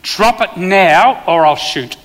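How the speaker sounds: slow loud shouted command; retold scream. Cop facing a crossbow-wielding man, shouting the order slowly. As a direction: bark the order out slowly at the gunman. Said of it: "I screamed at him".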